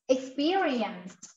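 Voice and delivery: slow "Experienced." with the final t sound pronounced; final sound articulated. Shown as a demonstration. Teacher modelling the ending sound for learners, "Experienced." with a clear final t. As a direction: say "Experienced." slowly, finishing on an audible t. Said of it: "There's an ending sound".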